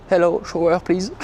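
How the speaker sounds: French-accented English. Real, not acted. Trucker asking for a shower at the station, French-accented English. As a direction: ask in self-mocking French-accented English. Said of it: "Avec mon super accent".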